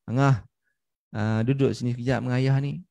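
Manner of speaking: coaxing father's call, kept low-key; kindly father. Retold or imitated. Father inviting his child to sit with him, kindly. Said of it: "Si ayah ni jadi baik".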